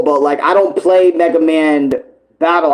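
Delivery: ordinary talk, nothing marked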